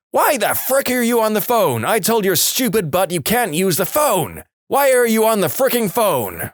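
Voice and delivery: a retold tirade, not truly loud; mock yell. Mum bursting in on her son's phone call, mild mock yell. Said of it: "Loud as any person can be".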